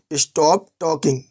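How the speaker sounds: very slow, every word spelled out; slow clear gloss. Shown as a demonstration. Teacher glossing for students, very slow and deliberate. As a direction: say it slowly for learners. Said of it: "teacher glosses phrase for learners".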